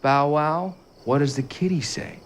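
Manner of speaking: sing-song kindergarten teacher voice; reading to a toddler. Acted. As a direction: ask it like talking to a little kid. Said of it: "break from his more serious and subdued tone".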